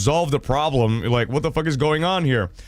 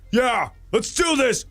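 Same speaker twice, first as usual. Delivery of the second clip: psyched up; 8 semitones higher, slower than usual. Acted. Acting out facing the bullies.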